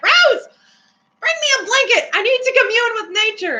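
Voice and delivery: high-pitched mock summons; imitated demanding friend. Friend orders Rose to fetch a blanket, high imitated demand.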